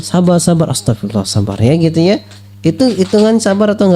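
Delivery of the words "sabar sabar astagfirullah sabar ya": friend calming someone. Retold or imitated. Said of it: "ditegur sama temennya".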